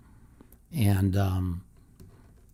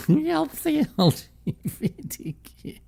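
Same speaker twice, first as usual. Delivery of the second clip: mock giggly quote, pitched high; imitating suppressed laughter. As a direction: mimic someone failing to keep a straight face. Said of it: "Can't even keep a straight face".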